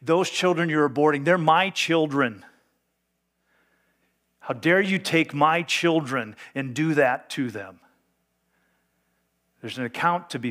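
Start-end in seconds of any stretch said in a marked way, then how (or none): 0.0-7.8 God's indignant rebuke. Acted. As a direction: press each word like God confronting the nation. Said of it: "and he's saying".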